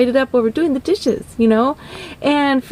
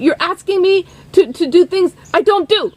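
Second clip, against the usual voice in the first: exasperated refusal; 5 semitones higher than usual. Retold or imitated. Producer refusing.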